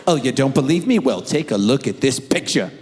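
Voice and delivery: mock Alabama country voice; Alabama accent. Grown son offering proof to interviewers, mock Alabama accent. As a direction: put on a light Alabama twang. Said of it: "Apparently he's moved to Alabama".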